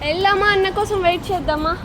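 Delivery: dote on the little one, lifting the voice high. Real, not acted. Parent praising a cute child, doting cooing.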